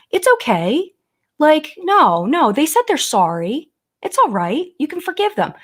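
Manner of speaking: high, sugary, dismissive mock soothing; mock sweet reassurer. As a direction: brush off the victim in a cloying high voice. Mock-soothing excuse for the driver.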